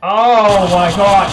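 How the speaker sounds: loud, drawn-out shock; shocked outcry. Real, not acted. Player shocked by the game, loud drawn-out outcry. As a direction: cry out in real alarm, stretching it.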